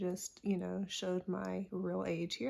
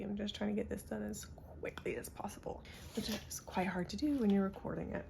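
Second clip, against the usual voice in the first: whispering. Real, not acted. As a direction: whisper it quickly. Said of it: "I'm having to talk so quietly".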